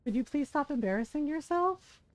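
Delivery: mock-polite, evenly levelled telling-off; calm rebuke. Father-in-law asking her to stop the scene, calmly. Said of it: "said it so calmly".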